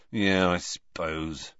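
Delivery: grumpy. Acted. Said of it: "said Ron grumpily".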